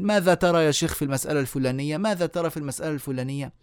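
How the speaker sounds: quick imitation of repetitive questioners; rapid-fire questioning. Imitated students pestering a sheikh with questions, rapid-fire. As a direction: rattle off the questions in quick succession.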